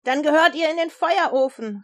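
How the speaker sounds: king calling out. A narrator's reading. King condemns the three to the furnace, shouting. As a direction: call out the sentence as an angry king. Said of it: "rief Nebukadnezar".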